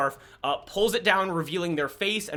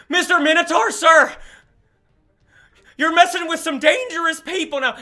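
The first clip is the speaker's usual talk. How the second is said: high, loud challenge; defiant warning; 11 semitones higher, 9 dB louder than usual. Acted. Jordan loudly warns the Minotaur he's messing with dangerous people. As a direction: square up and call him out. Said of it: "and she goes".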